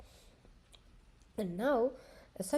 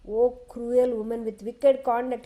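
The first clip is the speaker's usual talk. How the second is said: a louder, angry outburst at her; angry rebuke; 5 dB louder than usual. Acted. King berates his wife Kaikeyi, louder angry rebuke. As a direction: scold her with raised anger. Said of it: "Now he is talking in his anger".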